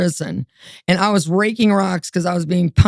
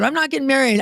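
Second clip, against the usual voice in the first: indignant refusal; 6 semitones higher, faster than usual. Retold or imitated. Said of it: "I said".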